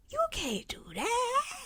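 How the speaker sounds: high, soft, hammed-up sob; mock crying plea. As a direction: whimper it like a wounded diva. First take, crying softly.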